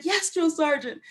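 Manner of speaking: very high, whimpering wail; mock blubbering answer to a superior; imitated tearful reply. Crying recruit answering drill sergeant, imitated tearful whine. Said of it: "I just broke down and cried".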